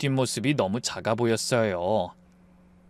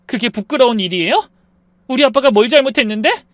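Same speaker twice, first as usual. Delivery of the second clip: angry demand; 8 semitones higher, 7 dB louder than usual. Acted. 부부싸움, 아내가 따짐.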